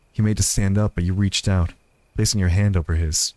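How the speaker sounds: low, even storytelling voice; story narration. A narrator's reading.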